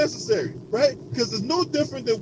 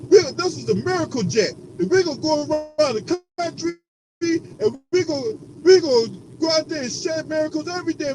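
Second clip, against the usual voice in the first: mocking preacher; 4 semitones higher than usual. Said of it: "the one jackass preacher talking about".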